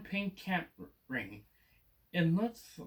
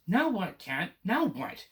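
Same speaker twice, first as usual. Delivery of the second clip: higher and louder, at a loss; dismayed outcry; 4 semitones higher, 4 dB louder, slower than usual. Acted. Boy cries out to the Cat, dismayed. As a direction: cry out, stumped.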